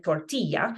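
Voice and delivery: "tortilla" with the double L as a y sound; Spanish double L. Shown as a demonstration. Teacher giving an example, y-sounding LL in "tortilla". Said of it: "the double L that you see in tortilla".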